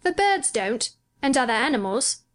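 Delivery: put-on high, pondering boy's voice; musing boy, pausing between thoughts; thinking it over. A narrator's reading. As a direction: reason it out aloud as a child. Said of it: "still thinking it over".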